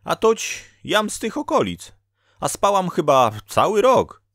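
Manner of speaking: high, loud peasant-woman character voice; Dola, lively fate-woman. Acted. (wysoki, głośny głos Doli)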